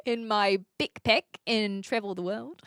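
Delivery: lightly put-on New Zealand accent. Reading out a chat message in an imitation New Zealand accent. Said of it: "New Zealand accent".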